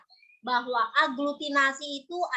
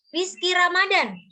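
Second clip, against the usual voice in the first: calling out a name. Real, not acted. Teacher calling out a student's name.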